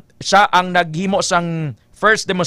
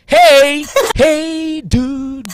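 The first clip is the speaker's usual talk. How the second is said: surfer hey dude; 5 semitones higher, much slower than usual. Shown as a demonstration. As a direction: greet like a surfer.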